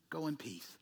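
hushed, low mock blessing; pious send-off. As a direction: send them off softly with empty piety.

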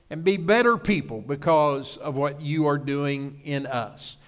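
hushed, earnest prayer to the Father. Acted. Opening prayer in sermon.

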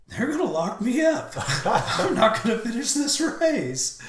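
high, loud despairing outburst; yelling. Retold or imitated. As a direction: holler it at the top of your range. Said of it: "just cussing and just yelling".

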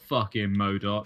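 slow, low Cockney swearing; lightly put-on Cockney slang insult. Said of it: "kind of Cockney slang style insult".

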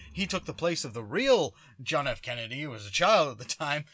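loud, insistent alien-nut rant; mock fanatical outburst, pushed loud; ranting conspiracy theorist. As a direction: insist on it like a worked-up crank.

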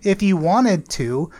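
slowly reading rap lyrics flat; deadpan lyric reading. Shown as a demonstration. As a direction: read the lyrics like a dry recital. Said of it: "read you some of these lyrics".

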